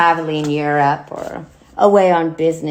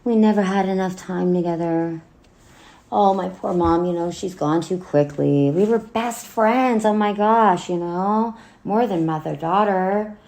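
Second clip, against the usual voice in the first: mock sentimental eulogy. Daughter mimicking a phony speech for her late mother, mock sentimental. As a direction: parrot empty funeral platitudes with mild sarcasm. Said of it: "a bunch of empty words and sayings".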